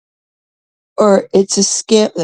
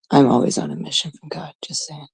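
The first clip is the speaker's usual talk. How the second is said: soft conspiratorial whisper; whispered aside; 2 semitones lower, 7 dB quieter than usual. Real, not acted. Comic confides her holy mission to the audience, whispered aside. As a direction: whisper it as a secret to the crowd.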